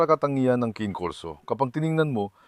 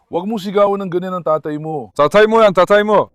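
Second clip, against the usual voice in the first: loud, high scolding of the pup; scolding shout; 5 semitones higher, 7 dB louder than usual. Real, not acted. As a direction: scold him sharply, rising to a yell. Scolding dog for yelling at father. (pasigaw na pagsaway)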